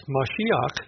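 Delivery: Mashiach said slowly, ma-SHEE-akh; careful Hebrew "Mashiach"; Hebrew pronunciation. Shown as a demonstration. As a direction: give "Mashiach" its Hebrew sound, drawn out. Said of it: "in the Hebrew".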